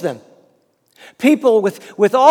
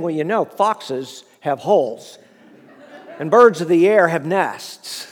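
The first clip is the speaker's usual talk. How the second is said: laughing mock reply; 4 semitones lower than usual. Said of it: "and say to him".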